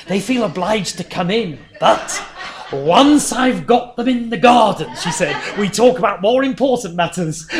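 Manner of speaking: put-on quoting the old missionary's joke with laughter breaking in; laughing through the quote. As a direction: laugh as you deliver the punchline. Retelling her funny remark.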